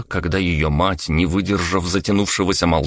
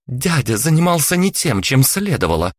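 high-pitched heated retort; exclaiming; 7 semitones higher than usual. Acted. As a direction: fling it back at her mother. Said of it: "воскликнула Ира".

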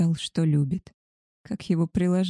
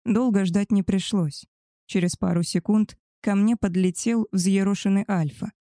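ordinary delivery, nothing marked

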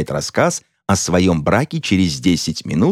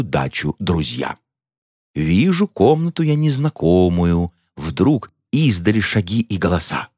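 глухо и торжественно. A narrator's reading. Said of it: "начал глухим торжественным голосом".

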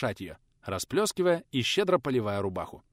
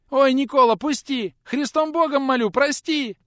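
put-on high, loud squealing boy; frightened boy squealing for the teacher to let go; squealing plea; 13 semitones higher, 8 dB louder than usual. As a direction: squeal and beg for mercy. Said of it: "заверещал тот".

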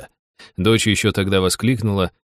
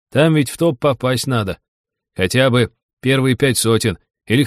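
slightly raised, lively character voice; lightly voiced scoffing buddy; 4 semitones higher than usual. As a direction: grumble animatedly about money nobody will offer. Narrator voices Серёга commenting. (слегка разыгранный ворчливый приятель)

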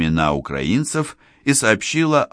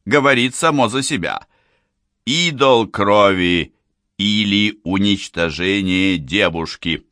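booming circus ringmaster. Acted. Showman introduces the illusion.

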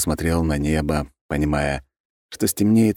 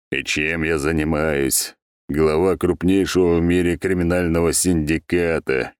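ironic grumble. Acted. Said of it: "иронично пробурчал бес".

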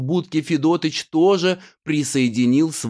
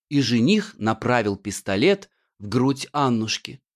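plain reading voice

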